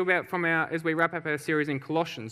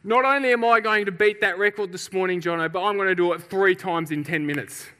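mildly hammed-up bravado; intensified vow; 3 dB louder than usual. Champion boasts he will beat the record, mildly acted bravado. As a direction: build the boast with emphatic confidence. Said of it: "intensifies what he wants to do".

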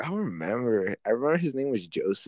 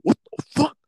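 much higher, louder incredulous yelp; mock outraged surprise; 4 dB louder than usual. A boy swings at him at lunch, mock shocked yelp. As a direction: throw it up in shock. Retold anger in the fight.

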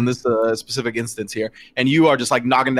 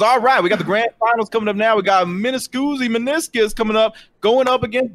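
high, hyped announcer voice; acted emcee hype, pitched up; match announcer; 8 semitones higher than usual. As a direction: announce the grand finals to a crowd. Tournament announcer calls the finals.

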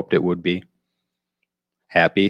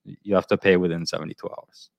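put-on Russian accent. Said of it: "as I do my impression of a Russian guy".

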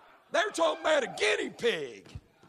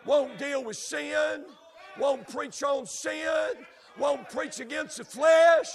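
preaching litany; 3 semitones higher than usual. Real, not acted. Preacher condemns preachers who won't preach against sin, full force. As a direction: hammer each won't like a drumbeat.

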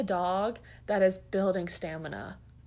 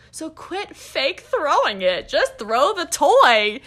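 louder, slowed emphatic order; firm slow scold; 5 semitones higher, 9 dB louder, slower than usual. Real, not acted. Trainer telling owners to stop fake throwing, slow and loud. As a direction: lay down the law word by word.

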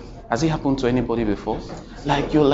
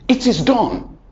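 higher, louder booming pronouncement; the lightning voice declares it finished, booming; 9 semitones higher, 6 dB louder than usual. Retold or imitated. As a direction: thunder it out like a voice from the clouds. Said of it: "Then a voice like lightning said".

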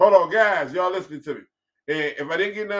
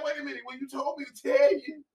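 higher, shouted mock protest; mock exasperated shout; 7 semitones higher, 5 dB quieter than usual. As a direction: throw up your hands and yell it back, half joking. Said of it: "You're like".

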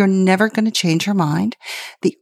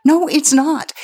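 firm no; 9 semitones higher than usual. Retold or imitated. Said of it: "And I said".

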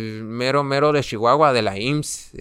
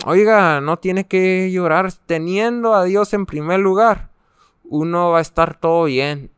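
reassuring; 4 semitones higher than usual. Retold or imitated. A patient comforting the crying man beside him, higher, earnest reassurance. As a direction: soothe a crying stranger with faith.

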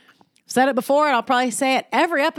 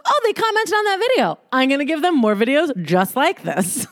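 voicing the algorithm; 4 semitones higher than usual. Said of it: "the algorithm goes".

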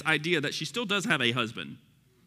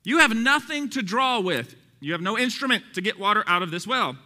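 raised, loud preacher's reading; emphatic scripture reading; 7 semitones higher, 5 dB louder than usual. Acted. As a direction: read the verse out with force. Reads scripture aloud to congregation.

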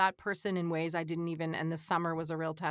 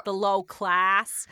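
loud, very slow working-class Boston accent; 6 dB louder, much slower than usual. Shown as a demonstration. Local naming her class, broad Boston accent. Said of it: "as we would say".

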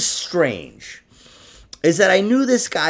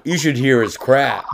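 lightly voiced talking toilet bowl; playful bit as the toilet bowl. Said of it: "Biggie's toilet bowl impression".

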